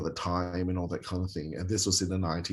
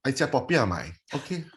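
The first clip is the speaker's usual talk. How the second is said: lightly voiced doting grandma, higher; grandma's voice; 9 semitones higher than usual. Grandma offering food to cheer up a frowning child, higher and doting. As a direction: coax like a fussing grandma offering treats. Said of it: "my grandma go".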